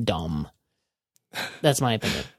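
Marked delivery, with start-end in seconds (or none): 0.0-0.5 trailing off. Shown as a demonstration.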